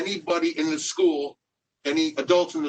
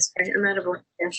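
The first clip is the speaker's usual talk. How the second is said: echo; 4 semitones higher, faster than usual. Real, not acted. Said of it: "I'm echoing".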